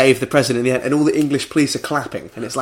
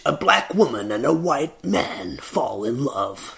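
mock serious; 5 dB quieter, slower than usual. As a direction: intone it very slowly like a solemn film pitch. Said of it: "everything is very serious".

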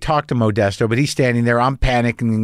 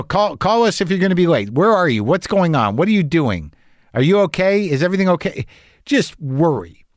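worried mother; 5 semitones higher than usual. Retold or imitated. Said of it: "My mother's like that".

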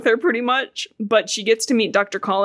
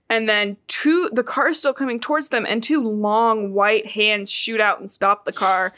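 sultry narrator. Acted. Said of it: "I am reading it in sexy voice".

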